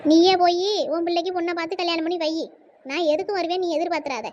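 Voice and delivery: loud, furious refusal; angry outburst. Acted. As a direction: shout it at your brother in anger. Angry sister refuses to come. (அண்ணனிடம் கோபமாகக் கத்துதல்)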